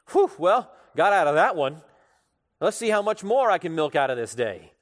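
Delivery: a flippant shrug of relief, lightly voiced; smug relief. A preacher voicing the ungrateful slave, mock smug relief. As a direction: brush off the close call like a chancer. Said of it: "his attitude seems to be".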